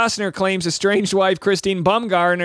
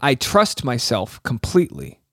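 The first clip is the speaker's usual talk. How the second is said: slow, lower, deliberate repeat; solemn affirmation; 5 semitones lower than usual. Retold or imitated. Host repeats affirmation for listeners, solemn. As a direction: recite it slowly for listeners to follow.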